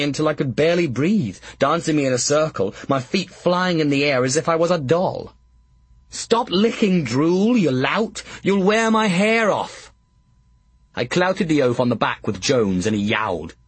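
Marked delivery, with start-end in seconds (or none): 6.1-9.9 higher, squeezed protest while being hugged; fending off a big oaf, half laughing; mock exasperated. Pocket squashed in Drool's hug, higher-pitched protest.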